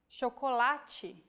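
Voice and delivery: chocolate with CH said as SH; Portuguese CH in chocolate; shoh-koh-lah-chee. Shown as a demonstration. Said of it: "forming the digraph C H".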